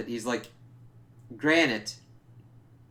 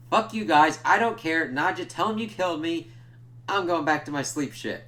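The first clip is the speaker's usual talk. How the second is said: mock angry Nandor; 4 semitones higher, 4 dB louder than usual. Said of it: "He's like".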